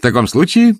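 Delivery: high, lively comeback; cheerful retort. A narrator's reading. Nephew answering his sour uncle, cheerful. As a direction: answer gaily, undeterred. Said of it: "весело отозвался племянник".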